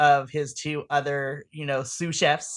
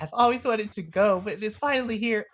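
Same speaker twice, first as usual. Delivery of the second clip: lightly hammed-up weepy voice, pitched up; higher voice, pretending to well up; mock tearful; 5 semitones higher than usual. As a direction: overcome at finally being here, played for fun. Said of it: "you're just, like, bawling your eyes out".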